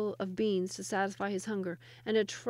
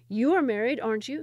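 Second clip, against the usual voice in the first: hopeful question; 3 semitones higher, 7 dB louder than usual. Acted. Sultan asks the next woman.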